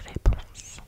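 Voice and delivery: réponse whispered the French way, with a rolled French r and a nasal final on; French pronunciation. Shown as a demonstration. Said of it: "In French we say".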